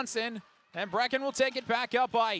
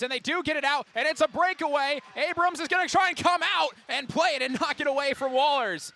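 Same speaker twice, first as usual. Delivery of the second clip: raised, urgent breakaway call; excited play-by-play; 5 semitones higher, 4 dB louder than usual. Real, not acted. Commentator follows a breakaway and the goalie coming out, excited. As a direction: pitch up and drive through the rush.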